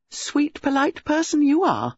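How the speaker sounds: high, cutting female voice; sarcastic. Acted. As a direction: throw mock praise at the boyfriend. Acted lovers' quarrel.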